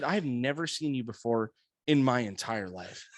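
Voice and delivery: low, deadpan retold denial; stone-faced denial. Driver lying to the cop about recognizing him, deadpan. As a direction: deny it without a flicker, pitched low. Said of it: "stone faced".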